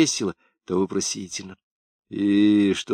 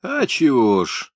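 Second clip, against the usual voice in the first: mocking mimicry; 5 semitones higher, slower than usual. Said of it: "передразнивая Клавдию, усмехнулся Жмакин".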